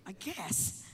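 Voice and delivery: low, soft concession; tentative reply. Retold or imitated. Son unsure how to answer father, hushed. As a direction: offer it quietly, unsure.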